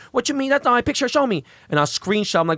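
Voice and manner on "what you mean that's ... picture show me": high mock voice, a bit louder; mimicking Johnny. Johnny asking Ben for proof, high mock voice. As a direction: squeak out Johnny's confused demand. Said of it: "He goes".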